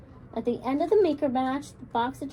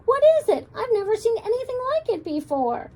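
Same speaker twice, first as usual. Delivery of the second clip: much higher and louder, astonished; amazed teacher; 10 semitones higher, 5 dB louder than usual. A narrator's reading. Teacher sees the giant creation, astonished. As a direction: gasp at something never seen.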